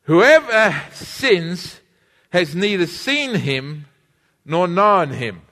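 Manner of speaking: very slow, drawn-out scripture reading; slow congregational reading. Shown as a demonstration. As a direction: lead the church in reading, word by word. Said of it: "read this with me".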